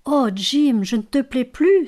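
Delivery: a wife fearing her husband no longer loves her, near tears. A narrator's reading. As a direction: hold back the tears as you cry out. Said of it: "sur le point d'éclater en sanglots".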